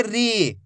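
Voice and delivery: री with a long, held ee; teacher drawing out री slowly; drawn-out syllable. Shown as a demonstration. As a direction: stretch the vowel in री for learners. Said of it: "खींच खींच के पढ़ना है".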